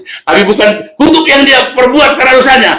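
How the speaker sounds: high, insistent preaching; impassioned pulpit delivery; emphatic preaching. Real, not acted. Preaches at raised pitch.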